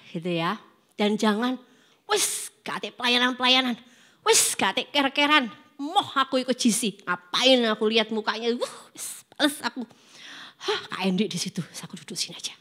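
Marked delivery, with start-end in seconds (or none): 2.1-12.5 grumbling sulk. Retold or imitated. Sulking youth complaining in Javanese.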